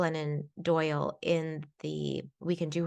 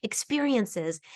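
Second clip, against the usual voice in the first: higher, insistent voice of the restless mind; the mind's voice; 5 semitones higher than usual. Retold or imitated. The mind answering the inner child, higher and insistent. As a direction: argue for freedom, pitched up and eager. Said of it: "her mind was like".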